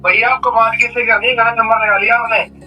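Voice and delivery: phone line voice; tinny voice through a phone call; over the phone. Real, not acted. Other party heard on phone.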